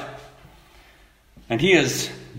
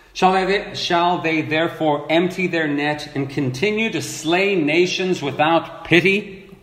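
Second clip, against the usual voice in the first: measured, solemn reading of the verses; scripture reading; 2 semitones higher than usual. Acted. Preacher reading scripture to congregation, solemn measured reading. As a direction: read the prophet's lament to the congregation, solemnly. Reads scripture passage aloud.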